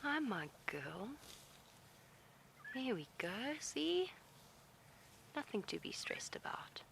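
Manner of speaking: whispered reassurance, no voice; calm the elephant with a breathy hush; soothing whisper. Real, not acted. Guide whispers to a nervous elephant to calm her.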